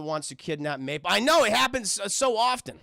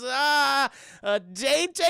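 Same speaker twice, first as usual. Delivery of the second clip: high, loud mock-taken-aback echo; startled question; 8 semitones higher, 5 dB louder, much slower than usual. Mabel echoing Gideon's invitation, high and startled. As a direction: stall on "Ah", then query it pitched up. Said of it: "She goes".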